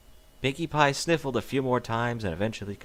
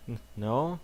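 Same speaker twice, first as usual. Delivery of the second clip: sniffling. Acted. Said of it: "Twilight sniffled".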